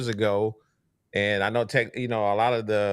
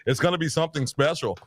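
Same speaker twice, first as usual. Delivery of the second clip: a lightly voiced dull, self-important host; hint of a stiff podcaster who thinks he's special; mock boring podcaster; 3 semitones higher than usual. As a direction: lightly mimic the dull rivals reading their script. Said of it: "talking like this".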